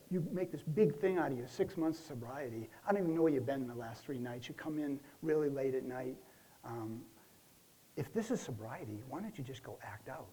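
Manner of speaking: retold yelling. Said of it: "she was screaming at me".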